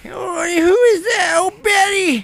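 put-on old lady voice. Martha character continues.

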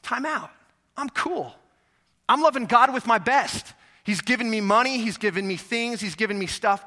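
lightly voiced content woman; the woman brushing it off. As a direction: play her as a woman shrugging off pity. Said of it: "But she's like".

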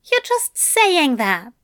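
Aziraphale doubting. Acted. Aziraphale voiced by narrator.

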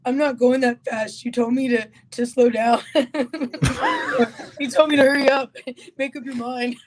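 lightly voiced husband imitation; half-hearted imitation, breaking into laughs; Joey Beltran. Shown as a demonstration. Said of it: "do your best Joey Beltran, uh, imitation right now".

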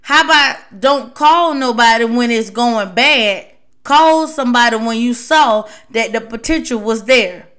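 fast, blunt talking-to; officer bluntly lecturing a partner, fast telling-off. Retold or imitated. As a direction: set a teammate straight quickly. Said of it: "Maybe you need to talk like that to 'em".

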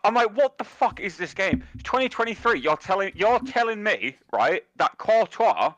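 high-pitched disbelieving rant, slowing on the key words; retelling his outrage at the goalkeeper's blunder; retold exasperated rant. To his mate, retelling the game's absurd goal, high exasperated rant. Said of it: "And I'm just like".

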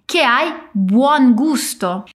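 "buon" said slowly, no final O; short buon. Shown as a demonstration. Teacher demonstrating the shortened "buon" slowly. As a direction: drop the final O: "buon", not buono. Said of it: "Então dizemos buon, sem o O final".

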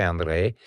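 "Andrei" with a shorter roll on the R; three-tap R. Shown as a demonstration. Actor counting down R vibrations, shorter trill. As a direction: give the R in "Andrei" three taps. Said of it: "e trei".

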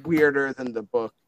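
Frank. Acted. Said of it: "Frank looks over and he's like".

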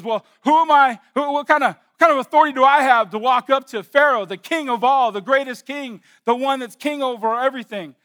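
mock Moses protest. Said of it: "Moses says".

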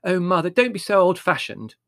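impatient. A narrator's reading. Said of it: "Margot said impatiently".

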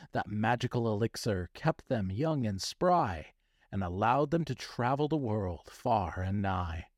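theatrical storybook narration; hammy stage actor. A narrator's reading. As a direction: read it like a grand stage actor. Reads his children's story aloud.

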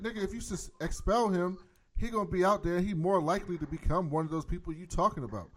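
high-pitched, insistent pleading of a case; acted heated argument. Recapper voicing Jefferson arguing against an expulsion, heated. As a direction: argue it urgently, pitch up.

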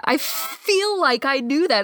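slowed, stretched repeat; slow drawn-out. Shown as a demonstration. Friend repeating a line, second take slowly. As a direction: draw each word out slowly.

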